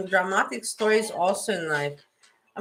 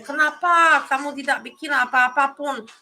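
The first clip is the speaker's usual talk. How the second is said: retold angry yelling in Indonesian, higher; 5 semitones higher than usual. Scolding the locals for doing nothing, higher angry yelling. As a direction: scold the bystanders, pitched up and heated. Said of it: "yelling at them in Indonesian".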